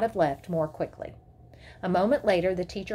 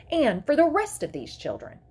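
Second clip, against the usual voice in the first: higher, mildly threatening mother; dangerous; 6 semitones higher, 4 dB louder than usual. A narrator's reading. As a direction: press on with a touch of threat. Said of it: "her voice dangerous".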